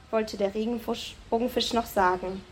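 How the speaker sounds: ordinary talk, nothing marked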